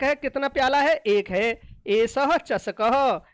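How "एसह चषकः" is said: slow recitation. Shown as a demonstration. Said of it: "slow Sanskrit reading demo".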